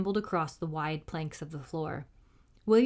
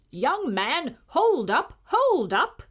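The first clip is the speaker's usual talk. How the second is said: rising, louder frantic call; cried out; 7 semitones higher, 5 dB louder, much slower than usual. A narrator's reading. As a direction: call out frantically to stop him. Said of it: "cried the Silver Knight".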